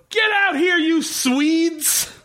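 high-pitched mock angry yell; bad guys yelling. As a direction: yell it like a hammed-up cartoon villain. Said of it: "you hear the bad guys go".

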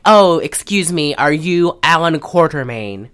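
lightly attempted posh British accent. Uptight gentleman approaching the hero, badly faked posh British. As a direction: have a half-hearted go at posh British. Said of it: "I can't do posh".

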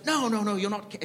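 put-on half-hearted British accent; attempted British accent. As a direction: lightly imitate a British executive. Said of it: "he's British. I can't do his accent".

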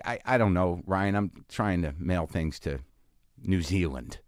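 deflate, soft and tired; a soft, defeated aside; weary mutter. Retold or imitated. Exasperated reply to Ryan.

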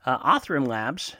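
a voice break mid-word, like puberty; voice cracking. Real, not acted. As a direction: voice cracks on the name. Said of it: "Hey, my voice just cracked".

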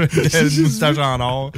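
drawn out slowly; slow emphasis. Real, not acted. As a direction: spell it out slowly.

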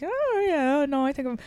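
high, flustered stammering reply; flustered Irish guy. Retold or imitated. Irish guy caught off guard by teasing, flustered. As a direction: squeak out a bashful deflection. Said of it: "Irish guy would be like".

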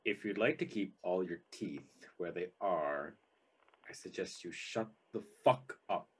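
low, soft menace; quiet threat. Acted. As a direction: threaten him under your voice. Character threatens a bound captive.

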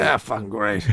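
low, soft Boston "great"; Boston accent. Pretend. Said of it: "I heard the Boston".

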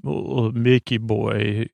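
slow, drawn-out Mickey boy, lightly voiced; funny voice. Fan imitates the Doctor greeting Mickey, mild slow funny drawl. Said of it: "he says it in a funny way".

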